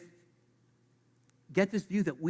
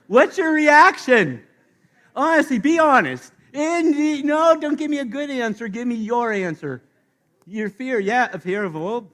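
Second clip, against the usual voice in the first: urgent pressing; 8 semitones higher, 10 dB louder than usual. Real, not acted. Pressing congregation excitedly.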